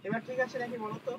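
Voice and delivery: choppy, dropping call audio; buffering stutter. Real, not acted. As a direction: voice breaking up online. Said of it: "মাঝে মাঝে sir কেটে কেটে আসছে". (কেটে কেটে আসা আওয়াজ)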